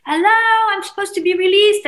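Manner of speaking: high, loud cries for help from a cell; panicked shout for help; desperate screaming. Retold or imitated. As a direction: yell for anyone to hear you. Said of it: "I'm screaming".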